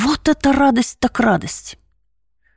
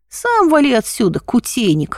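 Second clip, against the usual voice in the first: огрызаясь. Acted. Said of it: "огрызнулся мой обидчик".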